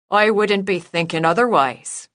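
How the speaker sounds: a lighter Irish lilt; mock Irish brogue. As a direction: keep the Irish accent going. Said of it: "Juniper winced slightly at the brogue".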